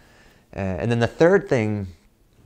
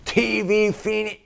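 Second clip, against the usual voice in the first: stern demand; 12 semitones higher than usual. Retold or imitated. Father repeats demand.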